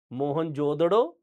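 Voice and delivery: drawn-out मोहनजोदड़ो, "darro"; Mohenjo-daro variant. Shown as a demonstration. Teacher repeats one variant slowly for the class. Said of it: "अलग-अलग उच्चारण होता है".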